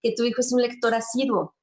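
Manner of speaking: a hint of envious people teasing the mother; mock envious. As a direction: imitate envious parents, a little mocking. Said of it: "porque dices".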